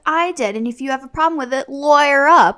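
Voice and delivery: mock feisty comeback, landing hard on the last words; defiant retort. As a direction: retell it as a sassy challenge. Acting Jenna's defiant retort to John.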